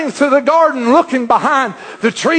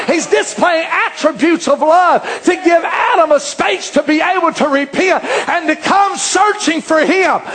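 fiery preaching; 3 semitones higher than usual. Acted. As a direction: preach it out to the congregation. Preacher rising to full force.

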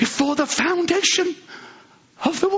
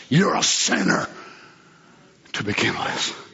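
hushed. Acted. Quoted words dropped low.

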